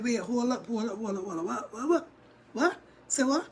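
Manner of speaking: rapid stammered double-take; acted-out baffled reaction; mock disbelief. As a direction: repeat it like you can't believe your ears. Acts own stunned reaction.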